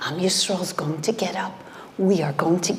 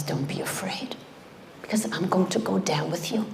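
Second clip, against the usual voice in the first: hushed comfort; 5 dB quieter than usual. Acted.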